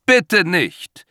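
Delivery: high loud panicked plea; frightened cry. A narrator's reading. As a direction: beg him to stop. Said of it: "ruft er".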